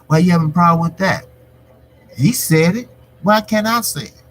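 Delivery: high, loud and fast indignant challenge. Real, not acted. Vlogger challenging critics over a double standard, indignant and high. Defends himself against critics.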